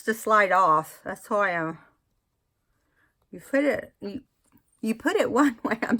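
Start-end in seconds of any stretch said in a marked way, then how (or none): 3.3-5.8 talking around a clip; words through a clip held in teeth; mouth full. Real, not acted. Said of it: "I'm talking with the clip in my mouth".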